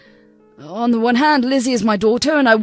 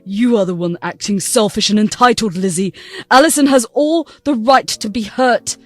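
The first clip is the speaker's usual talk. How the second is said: louder father standing up for his wife; angry father; 4 dB louder than usual. Acted. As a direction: defend her hard. Father defending wife loudly.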